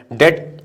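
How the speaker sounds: "डेट" said as "det", with the b silent; "डेट" like "debt" with no b sound; "डेट" ending in a clean t, no b. Shown as a demonstration. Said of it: "B silent होता है, इसको डेप्ट नहीं बोलते".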